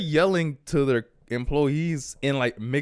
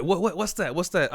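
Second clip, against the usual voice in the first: higher-pitched imitation of a puzzled Italian; Italian-accented confusion, mimicked; thick Italian accent; 6 semitones higher than usual. Pizza guy asking what was ordered, imitated Italian accent. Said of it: "In all that super thick Italian accent".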